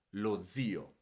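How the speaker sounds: "zio" stressed on the i, ZI-o. Shown as a demonstration. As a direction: lean on the i of "zio". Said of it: "el acento lo agrego sobre la I igual". ("zio" con el acento en la i, ZI-o)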